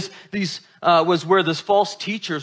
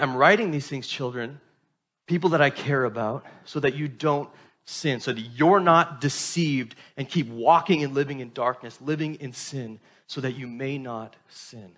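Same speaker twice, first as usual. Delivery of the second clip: tender plea; 4 semitones lower, 5 dB quieter than usual. Retold or imitated. Pastor voicing John's tender plea.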